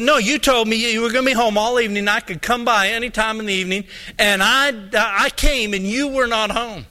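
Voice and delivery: mildly worked-up retold accusation; retold indignant insistence. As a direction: act out a man pressing his grievance. Junior insists he was wronged.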